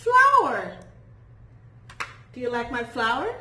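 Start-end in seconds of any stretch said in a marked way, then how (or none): 0.1-0.8 high, loud modelled word; teacher's cheerful model. Shown as a demonstration. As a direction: sing it out for the class. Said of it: "teacher models word".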